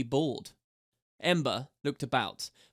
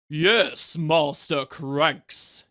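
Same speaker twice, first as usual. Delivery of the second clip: loud and drawn-out eager shout; eager to please, call it out; enthusiastic shout; 6 dB louder, much slower than usual. A narrator's reading. Garlic plays along for the guards, enthusiastic shout. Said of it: "shouted Garlic enthusiastically".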